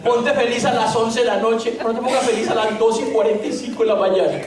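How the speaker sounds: chuckling mock complaint to his wife; laughing mock scolding. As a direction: tease her through laughter. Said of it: "yo le dije".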